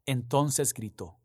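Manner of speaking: reading the Gospel aloud, measured and solemn; lectura solemne del Evangelio. Acted. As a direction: proclaim it to the congregation. (lectura del Evangelio, pausada y solemne)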